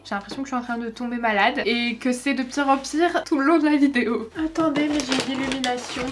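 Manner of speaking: talking through a blocked nose; stuffy nasal voice from a cold. Real, not acted. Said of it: "je parle un peu du nez".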